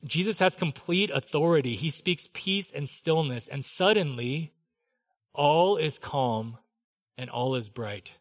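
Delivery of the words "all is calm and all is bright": slow and calming. Acted. Calm after storm, slowing.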